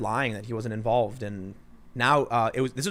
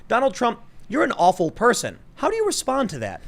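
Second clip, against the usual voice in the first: mocking hostile reporter; 9 semitones higher than usual.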